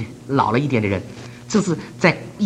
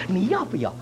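polite offer; 2 semitones higher, 6 dB quieter than usual. Retold or imitated. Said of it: "他说".

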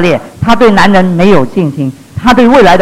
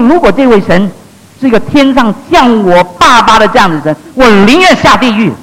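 imitated hatred, higher-pitched and forceful; bitter, through gritted teeth; 4 semitones higher than usual. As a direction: spit out a retold vow through gritted teeth. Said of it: "她咬牙切齿地说". (模仿咬牙切齿、带着恨意的语气)

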